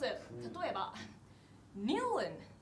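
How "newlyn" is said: Newlyn said as an English word; mock English word. Shown as a demonstration. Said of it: "英語っぽく言うと言えてしまいます".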